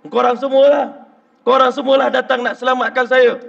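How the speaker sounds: a tearful man shouting his thanks; emotional outburst. Retold or imitated. Gangster crying out to the preacher, loud and emotional.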